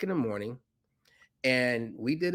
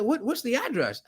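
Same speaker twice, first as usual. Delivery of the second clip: quoting Rajiv; 11 semitones higher than usual. Retold or imitated. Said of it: "And he said".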